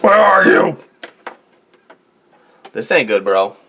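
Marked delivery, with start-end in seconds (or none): 0.0-0.8 sing-song calling. Pretend. Calling for lost pen.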